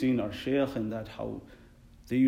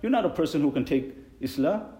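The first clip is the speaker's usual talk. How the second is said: high, loud, insistent; emphatic retort; 6 semitones higher, 5 dB louder than usual. Retold or imitated. Imam telling the muazzin off, high and insistent. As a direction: tell him straight. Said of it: "And I said".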